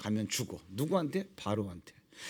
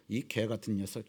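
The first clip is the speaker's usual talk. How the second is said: low mock insult; 12 semitones lower, 9 dB quieter than usual. Imagined insult to Moses.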